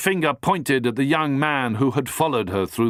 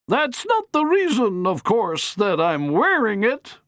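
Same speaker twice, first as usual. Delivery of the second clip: firm matron; 11 semitones higher than usual. Acted. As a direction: lay it down firmly like a grand dame. Matron voice held.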